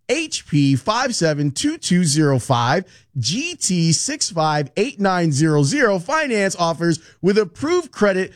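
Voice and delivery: fast legal disclaimer. Shown as a demonstration. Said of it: "here's the hard part, listen close".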